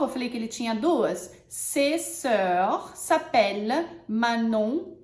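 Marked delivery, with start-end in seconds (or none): 1.5-4.9 slow, clear example; teacher models the sentence. Shown as a demonstration. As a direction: model it slowly.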